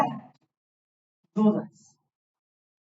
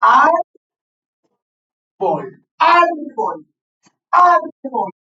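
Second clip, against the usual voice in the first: Árbol with the stress on ÁR, a bit loud; stressed demo word; 4 semitones higher, 3 dB louder, slower than usual. Shown as a demonstration. Teacher to class, showing the stressed syllable, pressing Árbol. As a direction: hit the ÁR of Árbol. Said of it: "¿Cómo dividimos sintácticamente árbol?".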